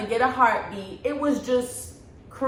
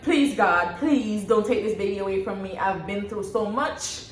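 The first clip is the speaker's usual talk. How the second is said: retold pleading. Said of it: "I started crying".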